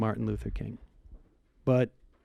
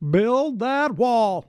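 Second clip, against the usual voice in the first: slow, higher mock chant; drawn-out mock rally chant; switching impression voices; 8 semitones higher, much slower than usual.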